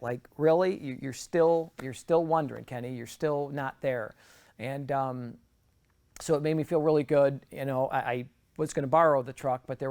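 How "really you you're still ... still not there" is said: God's voice, deliberate. Retold or imitated. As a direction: say it as if God answers patiently. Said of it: "how deliberately he answered that".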